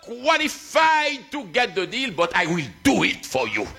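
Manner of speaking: high, slow shout easing down; proclaimed verdict. Retold or imitated. Seller granting the pastor a deal, proclaimed verdict. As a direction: shout it slowly, then let the pitch fall.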